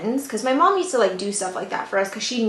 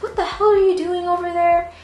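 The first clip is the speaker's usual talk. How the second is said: high-pitched mock scolding; retold yelling; 8 semitones higher than usual. Mom at her daughter in the car, mock yelling. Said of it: "profusely yelling".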